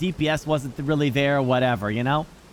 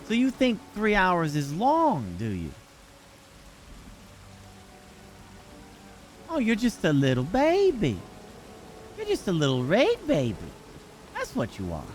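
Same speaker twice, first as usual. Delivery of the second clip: prim disapproving aunt; 4 dB quieter than usual. Acted. Teasing friend over short raid.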